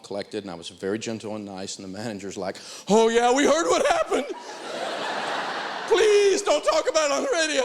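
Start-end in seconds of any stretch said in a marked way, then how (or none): 2.9-4.3 high, louder, laughing through it; the manager can't stop laughing. Retold or imitated. 4.3-5.8 airy laugh of the manager; breathy laugh. Retold or imitated. 5.9-7.6 high, louder, laughing through it; the manager can't stop laughing. Retold or imitated.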